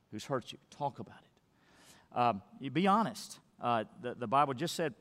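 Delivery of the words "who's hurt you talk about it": slow whisper, intimate and pressing; whispered urging. Acted. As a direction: lean in and whisper it slowly. Pastor urges honest talk.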